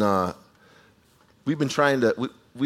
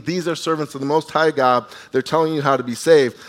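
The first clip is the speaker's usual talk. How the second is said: a louder, raised retold scream; mock screaming; 3 semitones higher, 6 dB louder than usual. Slave girl trailing the apostles, mock screaming. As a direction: call it out again, insistent and loud. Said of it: "just screaming".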